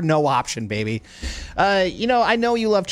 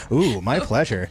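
sultry ooh; 7 semitones lower than usual. Shown as a demonstration. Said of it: "say it like that".

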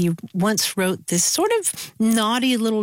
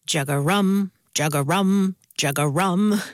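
bullfrog call; 4 semitones lower than usual. Retold or imitated. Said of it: "they say".

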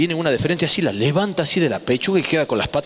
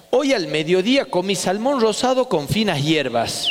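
slow, posh, deliberate claim; mock-refined lie for the detector; lying test statement. Shown as a demonstration.

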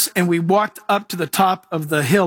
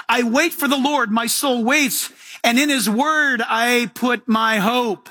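raised, intoned psalm reading; 3 semitones higher, slower than usual. Acted. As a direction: cry the psalm out to the Lord. Reads psalm in preaching voice.

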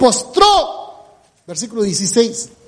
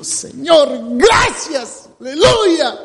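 grateful cry; 4 semitones higher, much slower than usual. Retold or imitated. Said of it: "lo dijo a gran voz".

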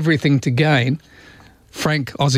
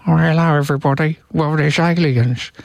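David Beckham impression. Radio host mimics Beckham announcing aliens, lightly voiced. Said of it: "sounds like he's playing with Lego when he talks".

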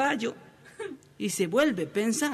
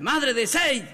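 mock shout; 5 semitones higher, slower than usual. Husband calls his unanswering wife at the party, mild mock shout. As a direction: call out insistently to the wife. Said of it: "a gritar".

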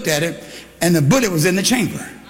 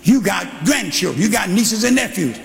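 full-force preaching; 3 semitones higher than usual. Acted. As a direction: drive it home to the pews. Preaching to the congregation.

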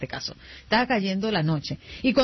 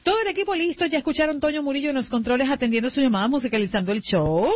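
radio host intro. Acted. Host presents the radio crew, announcer read. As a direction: announce the team on air.

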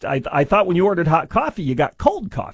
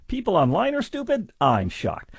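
sarcastic mock shock; 5 semitones higher, 3 dB quieter than usual. Real, not acted. Mocking the lawsuit's online evidence, raised mock surprise then flat deadpan. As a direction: fake astonishment, deadpan follow-up.

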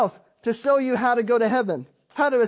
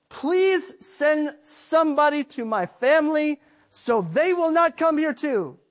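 slow, higher begging plea; pleading rich man; 4 semitones higher than usual. Retold or imitated. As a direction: beg for your family to be warned. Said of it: "his biggest request to God, to Abraham was".

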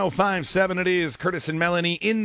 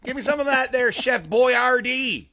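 Dracula-like pitchman; 6 semitones higher than usual. Retold or imitated. Host hamming up the old pasta commercial. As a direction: stretch out Boyardee like a count. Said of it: "You sounded like Dracula".

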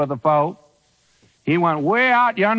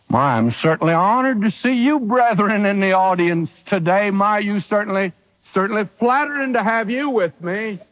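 mock flattery; 3 semitones higher than usual. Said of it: "Is that what he said?".

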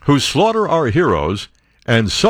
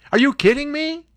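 high, outraged disbelief; pitched-up are you kidding me; incredulous; 11 semitones higher than usual. Real, not acted. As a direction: cry out in disbelief at the ruling.

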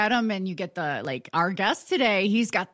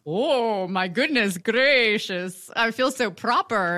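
mock proper; slower than usual. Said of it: "I was like".

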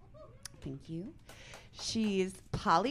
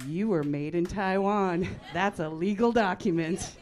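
emphatic proclaiming; 6 dB louder than usual. Retold or imitated. Big sister convincing little sister she was adopted, emphatic. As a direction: declare it loudly as damning proof.

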